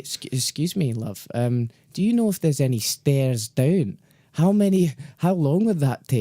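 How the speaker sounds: timid Scottish accent, imitating a friend. Friend asks tower worker for stairs, nervous Scottish accent. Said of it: "that's a good Scottish accent".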